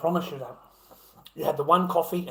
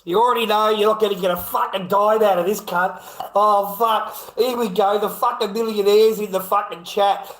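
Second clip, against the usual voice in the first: loud, raised-pitch rant at a chat millionaire; 4 semitones higher, 4 dB louder than usual. Real, not acted. Streamer ranting loudly at a bragging millionaire viewer, loud and high.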